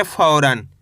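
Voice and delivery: फौरन as one whole word, pitched low and falling; model pronunciation. Shown as a demonstration. Teacher shows learners how to read it, फौरन low and joined. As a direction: join फौ and रन, dropping the pitch. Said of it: "कैसे पढ़ेंगे?".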